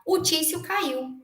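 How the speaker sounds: high, slow retelling of the friend's news; friend's news, slow and drawn out. Retold or imitated. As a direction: announce the fall with weight. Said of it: "Tô botando aqui o nome fictício".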